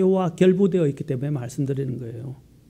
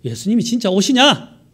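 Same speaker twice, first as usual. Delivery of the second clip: scoffers' question; 4 semitones higher, 4 dB louder than usual. Retold or imitated. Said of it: "그들은 계속해서 말합니다".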